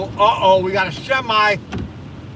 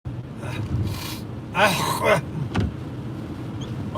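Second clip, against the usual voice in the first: long real coughing fit; 3 semitones lower, 8 dB quieter than usual. Real, not acted. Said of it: "there's something still in my throat".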